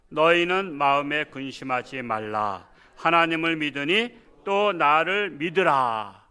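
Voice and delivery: slow, measured scripture recital; slow unison reading. Shown as a demonstration. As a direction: read the verse slowly together with the congregation. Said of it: "한 목소리로 합독해 보겠습니다".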